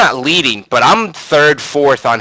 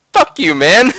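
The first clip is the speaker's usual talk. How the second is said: high-pitched mock defiance; indignant young self; 7 semitones higher, 4 dB louder, slower than usual. Thirteen-year-old gamer cursing his smug rival, squeaky defiance. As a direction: throw it out in a squeaky put-on kid voice.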